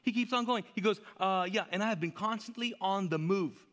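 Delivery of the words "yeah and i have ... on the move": higher, insistent complaint; Paul's rant. Acted. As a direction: press on through the grievances. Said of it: "This is how you know he's ranting".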